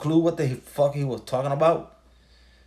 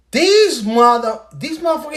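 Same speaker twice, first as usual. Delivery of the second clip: shocked disbelief; 9 semitones higher, 7 dB louder than usual. Retold or imitated. Telling a friend how the podcast's prediction shocked him, pitched way up in disbelief. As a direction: blurt it out in stunned disbelief, pitch flying up. Retelling his shocked reaction.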